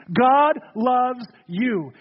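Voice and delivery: slow tender refrain. Real, not acted. Sermon refrain.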